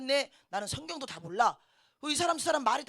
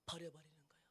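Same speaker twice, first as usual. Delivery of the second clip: hushed whispered line; 7 semitones lower, 18 dB quieter, faster than usual. Real, not acted. Preacher whispering to the congregation. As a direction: breathe it out like a secret.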